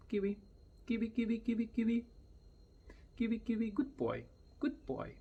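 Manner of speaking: high sing-song name; high, bright Kiwi; high call to bird. Shown as a demonstration. Calling parrot fondly.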